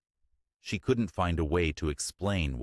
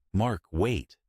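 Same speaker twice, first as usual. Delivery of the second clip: higher, louder desperate cry; desperate call; 6 semitones higher, 3 dB louder than usual. A narrator's reading. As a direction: call after him desperately. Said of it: "she called out, her voice desperate".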